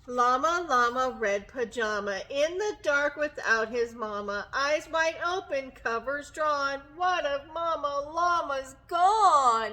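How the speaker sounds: building suspense in rhyme, rising at the end; dramatic storybook reading. Acted. Teacher reads of llama alone in the dark, dramatic storytime reading. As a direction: read the rhyme with growing alarm. Reads picture book to children.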